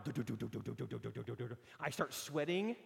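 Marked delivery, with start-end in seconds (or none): 0.0-1.6 heartbeat. Retold or imitated. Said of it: "My heart goes".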